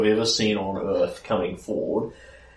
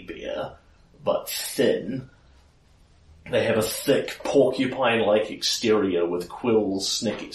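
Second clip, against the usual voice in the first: measured, descriptive storyteller voice; narrating a monster reveal; game master scene setting. Acted. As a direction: lay out each creature detail for the players. Game master describes more creatures emerging.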